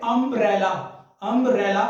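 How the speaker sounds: अम्ब्रेला said clearly, with its opening vowel sounded out; careful classroom अम्ब्रेला, starting on an open vowel; pronunciation demo. Shown as a demonstration. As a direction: model अम्ब्रेला twice so the first sound stands out. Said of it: "जिसे हम बोल रहे हैं".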